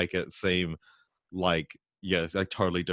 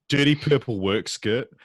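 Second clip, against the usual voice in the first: Southland rolled R; 3 semitones higher than usual. Shown as a demonstration. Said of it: "people roll their R's".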